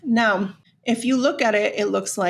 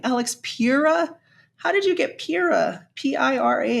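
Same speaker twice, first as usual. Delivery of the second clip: incredulous; 4 semitones higher than usual. Real, not acted. Incredulous at the mispronunciation.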